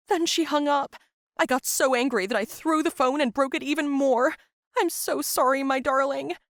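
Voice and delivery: a hint of a distraught mother apologizing; upset mom. Mom voiced, confessing, crying.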